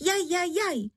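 high yelping cries of a burning head; crying out in pain. A narrator's reading. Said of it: "se dala do křiku". (vysoké bolestné vykřikování)

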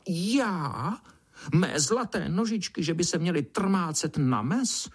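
high, squealing indignant beetle voice; a spoiled beetle squeals her outrage; high, haughty little beetle voice; squeaky beetle. A narrator's reading. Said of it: "broučice vypískla".

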